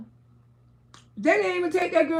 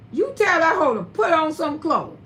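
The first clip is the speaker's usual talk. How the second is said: hard, blunt order to the son. Retold or imitated. Mother orders her son to fix his girlfriend's clothes, blunt. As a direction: say it flat out, no softening. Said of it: "And I said it just like that".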